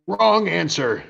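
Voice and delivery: high-pitched, drawn-out villain taunt; mock villain retort. Villain's retort in retold scene.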